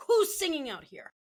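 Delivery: a teacher's high, loud call of surprise; surprised teacher. Retold or imitated. Teacher jumps out of the room calling for the singer, high surprised call.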